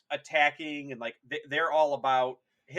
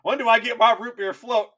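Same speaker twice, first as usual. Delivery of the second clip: petulant demand; 4 semitones higher, 5 dB louder than usual. Retold or imitated. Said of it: "same madman demands".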